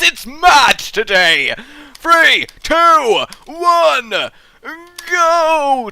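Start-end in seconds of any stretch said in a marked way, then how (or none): 1.9-5.9 high, loud countdown. Real, not acted. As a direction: count them in like a race start. Countdown to start.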